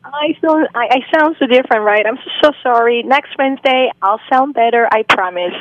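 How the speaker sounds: raspy voice from a cold; hoarse from a cold. Real, not acted. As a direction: speak through a sore throat. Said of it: "you don't sound quite the same like I always hear".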